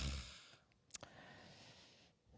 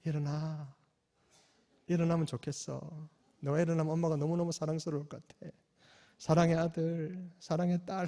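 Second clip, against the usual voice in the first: soft, tender wake-up coaxing; tender whisper-like; 7 dB quieter than usual. Retold or imitated. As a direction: murmur it lovingly into a child's ear. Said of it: "귀에도 속삭이면서".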